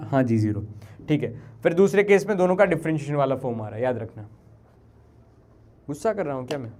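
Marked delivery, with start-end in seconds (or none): 5.9-6.7 low, subdued question; hushed, low-pitched check; quiet questioning. Real, not acted. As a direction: ask it softly, under control. Teacher asks if he is angry.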